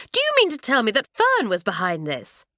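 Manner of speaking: too loud for the still night. Acted. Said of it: "Her voice sounded very loud in the still night".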